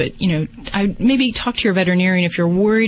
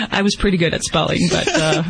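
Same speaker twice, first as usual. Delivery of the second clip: laughing. Real, not acted. Laughing after spelling joke.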